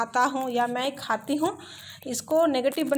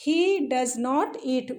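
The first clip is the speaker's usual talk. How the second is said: slow dictation; much slower than usual. Shown as a demonstration. Teacher dictating the model sentence.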